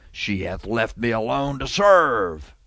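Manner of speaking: slow, drawn-out telling on a sister; lightly acted tattletale complaint. Martha telling on her sister to the Lord, mildly tattling. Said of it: "was she being a tattletale?".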